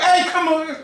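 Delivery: high, imitated holler; calling over music. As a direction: shout as if the music were still blaring. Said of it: "the music cuts off".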